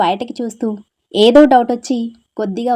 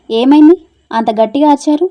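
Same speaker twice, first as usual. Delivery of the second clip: higher, louder startled complaint; startled annoyed shout; 4 semitones higher, 6 dB louder than usual. Acted. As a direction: snap back after being jolted awake. Girl jolted awake by shouting. (నిద్రలేచి ఉలిక్కిపడి చిరాగ్గా అరవడం)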